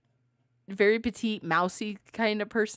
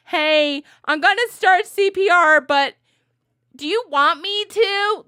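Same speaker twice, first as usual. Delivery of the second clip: higher and louder, a cheery silly ask; mock polite question; 10 semitones higher, 9 dB louder than usual. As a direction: play a chipper rescuer asking permission mid-CPR. Mock asking a dead person.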